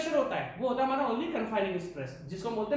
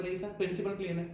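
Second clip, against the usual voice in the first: mock student reply; 4 semitones lower, 4 dB quieter, faster than usual. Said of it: "आप बोलोगे".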